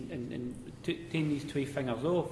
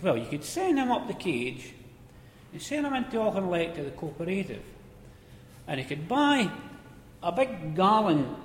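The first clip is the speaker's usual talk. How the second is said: cheeky miner voice; 5 semitones higher than usual. Retold or imitated. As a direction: deliver it like a sly pit joker.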